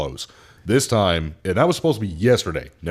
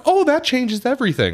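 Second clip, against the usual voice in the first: much higher, bright relief; high mock relief; 4 dB louder than usual. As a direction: sing out relieved like her. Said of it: "She's like".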